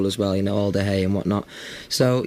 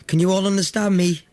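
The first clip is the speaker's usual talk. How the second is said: calling out to crowd; 9 semitones higher than usual. Retold or imitated. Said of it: "They didn't say".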